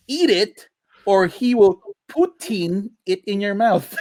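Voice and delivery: slow, shouted punchline; hammy ad slogan, shouted out; ad tagline. Acted. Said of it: "there's a tagline".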